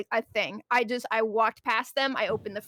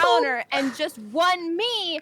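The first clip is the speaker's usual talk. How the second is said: rude customer voice; 4 semitones higher, slower than usual. Retold or imitated. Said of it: "breathing down your throat going".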